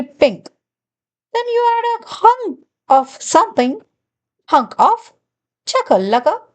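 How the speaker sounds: a hint of a sly, sugary glunk, quick in places; lightly voiced glunk. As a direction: play the glunk, sweetly pushy, not far from your own voice. Glunk continues the recipe.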